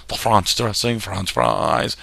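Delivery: hammed-up French accent on food names; joking faux-French "Frahnsh"; mock French accent. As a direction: riff playfully in a fake French accent. Riffing on French food words.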